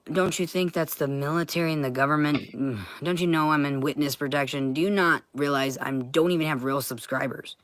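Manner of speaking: usual speaking voice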